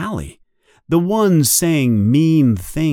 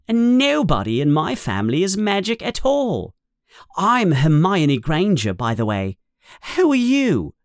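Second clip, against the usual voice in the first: put-on high, quick bossy-girl chatter; brisk schoolgirl rush, pitched up; very fast; 6 semitones higher, faster than usual. A narrator's reading. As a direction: rattle it off like a know-it-all. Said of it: "She says all this very fast".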